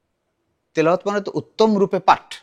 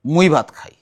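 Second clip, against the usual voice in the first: Barishal dialect; 4 dB louder than usual. Shown as a demonstration. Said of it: "Barishal হলে কি বলবে?".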